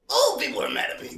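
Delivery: high, loud, hurried outburst; mock outdoor yell. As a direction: call it out like an outdoor voice. Demonstrating outdoor voice after indoor remark.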